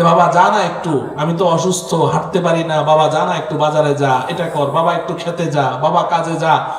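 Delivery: lightly voiced ailing father asking for help; old father's plea. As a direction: plead like a tired sick father. Old father pleading with child.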